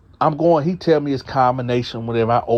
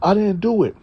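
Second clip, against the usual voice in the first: scared pleading; 8 semitones higher than usual. Retold or imitated. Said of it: "He like".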